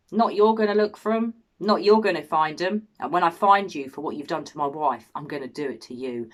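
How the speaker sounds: acted threat, starting loud then dropping; vengeful husband. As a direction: warn the killers you are coming for them. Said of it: "That's what a normal husband would say".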